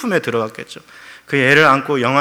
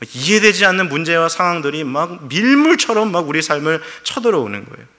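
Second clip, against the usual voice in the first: ordinary talk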